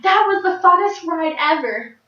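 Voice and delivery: high-pitched imitation of a kid raving; thrilled child. Child just off the slingshot ride, imitated excitement. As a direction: gush like an elated little kid.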